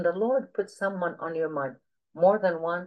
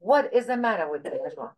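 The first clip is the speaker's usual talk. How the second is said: mock exasperation; retold scolding; 2 semitones higher than usual. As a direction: imitate a preacher taking someone to task. Repeats the preacher's rebuke.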